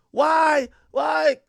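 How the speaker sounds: mock protesting date. Date told the night is over, mock protest.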